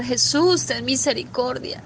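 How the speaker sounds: short pleading call, rising; retold cry for mercy. People left outside crying to Jesus, mild pleading shout. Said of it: "y empezaban a gritar".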